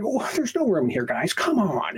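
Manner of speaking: high whiny protest, mocking; mock whiny passenger. Mimicking a passenger who refuses to make room, high and whiny. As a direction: whine it high like a put-out passenger.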